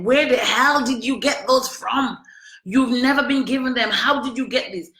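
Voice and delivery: acted disbelief at his nerve; indignant demand. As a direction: confront him as if he were there. Confronting ex over documents.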